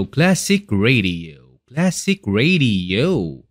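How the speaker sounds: slow, stretched classic-radio announcing. Shown as a demonstration. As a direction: draw it out like an old radio announcer. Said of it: "next naman natin yung pinaka-classic radio". (mabagal na boses pang-radyo)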